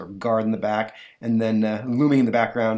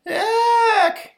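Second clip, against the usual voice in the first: high, loud shriek of despair; sudden terrified shriek; despairing scream; 9 dB louder than usual. Acted. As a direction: let out a piercing scream from another room. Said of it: "comes a despairing scream".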